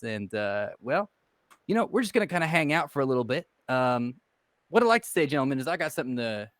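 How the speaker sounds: lightly voiced smooth talker making a pitch; in-character pitch. Player's character pitching a deal to two strangers, lightly voiced salesman. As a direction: sell it to the gentlemen like a confident hustler.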